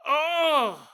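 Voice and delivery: loud, high groan in a bad British accent; fake British accent groan. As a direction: servant wailing in a hammed British accent. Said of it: "the worst accent possible".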